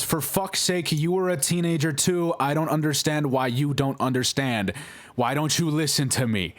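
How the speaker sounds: half-acted frustrated yelling at dad; retold outburst. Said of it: "escalates the situation".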